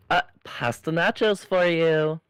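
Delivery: waitress voice. Acted. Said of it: "you do the waitress".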